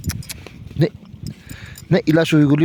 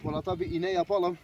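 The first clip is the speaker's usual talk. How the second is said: hushed voice; 15 dB quieter than usual. Real, not acted. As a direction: keep your voice down near the animal. Iğne için sessizce konuşuyor. (kısık, yavaş bir sesle)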